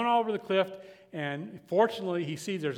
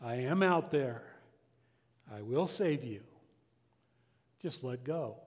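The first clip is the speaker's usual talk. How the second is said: booming voice; 5 semitones lower, 4 dB quieter than usual. Acted. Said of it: "booming voice, uh, comes from the clouds".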